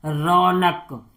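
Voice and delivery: रौनक drawn out very slowly, syllable by syllable; a teacher sounding out रौनक slowly; slow syllable stretch. Shown as a demonstration. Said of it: "उसके रौ, रौनक".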